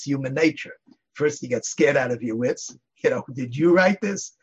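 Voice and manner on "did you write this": a touch higher, slow, gently asking; milder question. Retold or imitated. Rabbi's question retold without the scary tone, mild and curious. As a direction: ask it as a curious question, not a threat. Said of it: "But not in that tone of voice".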